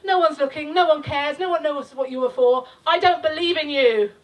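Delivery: spoken-word poem, declaimed; rhythmic spoken-word delivery; poem recital. Acted. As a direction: perform the poem to the crowd.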